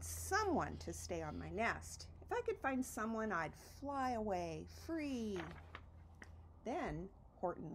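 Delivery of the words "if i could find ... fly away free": dreamy echo. Acted. Repeated wish, dreamy echo.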